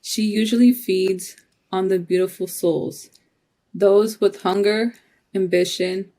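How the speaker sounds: measured spoken-word reading in short phrases; poetry reading, steady and deliberate; poem recital. Acted. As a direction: recite it line by line, pausing between phrases.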